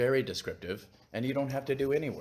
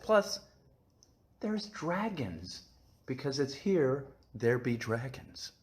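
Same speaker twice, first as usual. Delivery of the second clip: excited hype; 3 semitones higher, slower than usual. Acted. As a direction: gush about dragons. Hyping the dragon book.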